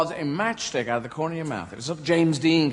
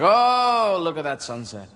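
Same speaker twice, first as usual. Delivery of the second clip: mynah bird; slower than usual. Acted. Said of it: "they say things like".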